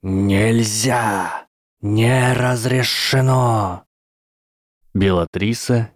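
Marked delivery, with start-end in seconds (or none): 0.0-3.8 angry serpent hiss, slow at the end; furious hiss. Acted. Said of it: "яростно зашипела змея".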